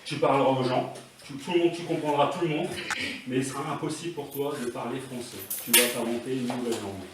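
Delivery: soft, measured hypnotist voice; low-key stage hypnosis murmur; hypnotic suggestion. Pretend. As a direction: plant the idea quietly, voice sinking.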